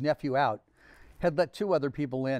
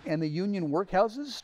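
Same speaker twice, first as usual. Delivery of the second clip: pointed, higher challenging question; demanding; 6 semitones higher than usual. Acted. Scrooge pressing the charity gentleman, pointed demand. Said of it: "demanded Scrooge".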